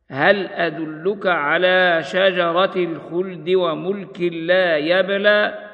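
slow, measured tartil chant; slow Quranic recitation. Acted. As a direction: recite it slowly with tajweed. Recites verse in tajweed style.

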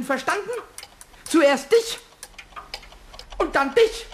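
scolding threat. Acted. Kobold threatening to stop disobedient clocks, scolding. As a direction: warn them in quick, high bursts.

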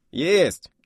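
high, loud snapped acknowledgement; shouted yes sir. Acted. Radio operator shouting back his acknowledgement. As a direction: fire back the reply.

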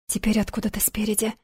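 plain reading voice

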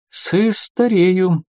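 slow stutter on the с of "старею"; halting, drawn-out start to "старею"; sighing stammer. A narrator's reading. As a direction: catch on "С-", then draw out "старею". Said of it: "вздохнул брат Юр".

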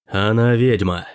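«она» stressed firmly, falling on «ведьма»; insisting. A narrator's reading. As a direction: hit «она» hard, flat finality. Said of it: "настоял Даркхард".

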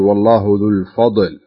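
"ذو الفضل" with the ض bounced, a qalqala echo; wrong qalqala on dad. Shown as a demonstration. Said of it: "فتجد البعض يقول". (نطق خاطئ بقلقلة في "الفضل")

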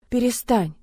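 loud desperate scream. Acted. Heroine screaming at him to stop, desperate. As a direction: beg him to stop at full voice.

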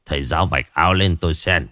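put-on low, curt old shaman; a low command from the old man; the shaman ordering the teacher to lift his shirt; old shaman's voice.

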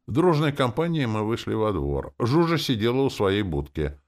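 plain reading voice

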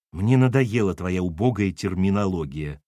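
low-pitched, precisely articulated irritation; crisp rebuke. Acted. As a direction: hammer out each word coldly. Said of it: "отчеканила Кира и ушла".

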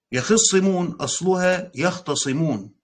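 يخصمون and يختصمون said slowly, each syllable clear; slow down and set يخصمون against يختصمون; slow stressed explanation. Shown as a demonstration. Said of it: "في إدغام هنا".

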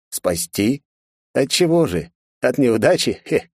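scoffing, rising mock question. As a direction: toss it off with a sneer. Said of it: "усмехнулся контролёр".

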